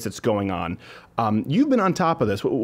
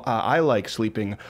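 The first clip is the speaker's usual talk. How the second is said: mock sultry; 2 semitones lower, slower than usual. Host mimicking people who use French to sound erotic. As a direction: savour the French words slowly. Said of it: "people say".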